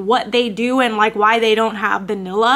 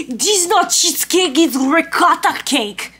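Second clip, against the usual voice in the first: snooty Italian correction; 4 semitones higher, 4 dB louder than usual. Retold or imitated. Barista correcting the customer, snooty Italian accent. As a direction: correct her like she's ignorant, Italian accent. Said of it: "he goes".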